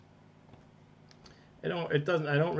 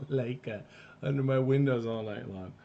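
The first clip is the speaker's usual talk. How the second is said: thick mock Russian accent, laughing through it; heavy russian accent menace; 2 semitones higher, 4 dB louder than usual. Reading chat in Russian persona.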